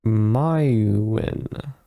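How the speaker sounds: Mywin said drawn out, first syllable like "my"; pronunciation shown. Shown as a demonstration. Mage introducing herself gives her name's pronunciation, Mywin sounded out slowly.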